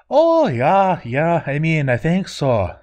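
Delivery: eager, quick yes; bursting with eager agreement; enthusiastic. Acted. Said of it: "nodded enthusiastically and said".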